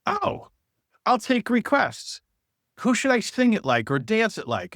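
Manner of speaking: excited teacher. Retold or imitated. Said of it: "she goes".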